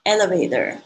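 "Elevator" with the final T O R fully sounded; "Elevator", ending spelled out in sound; full ending demo. Shown as a demonstration. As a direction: say every syllable of "Elevator" clearly to the end. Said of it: "那个T O R一定要念出来".

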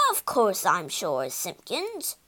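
a touch of an impatient bark; mild bark. Acted. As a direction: snap back, lightly voiced. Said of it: "barked Slate".

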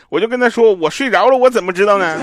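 rising indignation at the dentist; telling the story of the dentist, getting exasperated. Retold or imitated. Exasperated retelling of dentist visit.

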